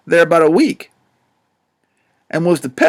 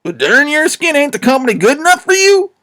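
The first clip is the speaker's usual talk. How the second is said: higher, pert, uppity challenge; 7 semitones higher than usual. A narrator's reading. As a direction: needle him, cheeky and sharp. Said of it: "pretty pert and uppitish".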